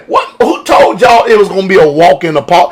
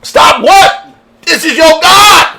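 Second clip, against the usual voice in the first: panicked pleading shout; 9 semitones higher than usual. Retold or imitated. Preacher voicing terrified Israelites begging Moses, high panicked shout. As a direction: yell it like the mountain is about to kill you.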